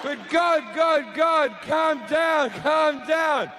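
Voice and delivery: pleading guests. Acted. Guests trying to calm God.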